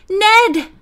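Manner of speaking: high, loud exclamation; surprised call. A narrator's reading. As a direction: cry out in recognition. Recognizing her friend, calling out.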